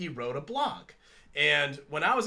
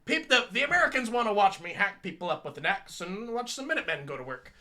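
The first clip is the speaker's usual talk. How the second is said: put-on a weak, half-hearted stab at Mel Gibson's Australian accent; lightly mock Mel Gibson's Australian accent, and do it poorly; bad Mel Gibson impression; 3 semitones higher than usual. Mocking how Mel Gibson talks about his movies, in a weak Australian accent. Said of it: "That, that does not sound Australian".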